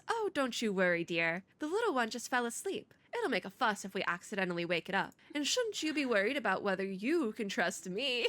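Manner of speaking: put-on Southern accent; Tuesday. Tuesday reassuring Barbara about the little one, Southern accent. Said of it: "give Tuesday the accent".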